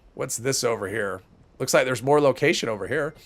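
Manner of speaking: stuffy nose, congested; blocked nose. Real, not acted. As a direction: talk through a blocked nose. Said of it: "God, I'm stuffy again".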